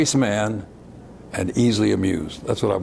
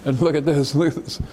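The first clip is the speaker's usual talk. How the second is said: higher, eager look-at-this; a young man trying to impress, pitched up; eager showing off; 5 semitones higher than usual. Retold or imitated. Young man showing the gun to Huey and Bobby, eagerly. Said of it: "I began to pick the gun up and say".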